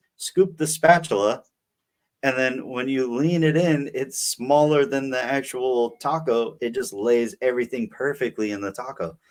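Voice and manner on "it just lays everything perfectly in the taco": ordinary talk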